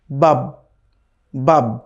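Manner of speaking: বাব with the final ব cut short and held still, no vowel after it; stop on the sukun. Shown as a demonstration. Teacher shows students the sukun stop: বাব, ending abruptly. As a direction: say বাব and stop dead on the last ব. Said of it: "শেষের বাটার জায়গায় থেমে যেতে হবে".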